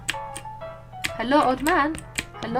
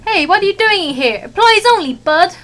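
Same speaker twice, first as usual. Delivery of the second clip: gruff chef; 8 semitones higher, 7 dB louder than usual. Acted. Chef voiced angrily.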